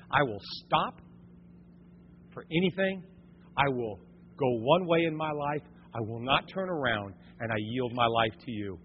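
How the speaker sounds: softly voiced surrender prayer. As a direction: pray it quietly, almost to yourself. Quiet prayer after loud preaching.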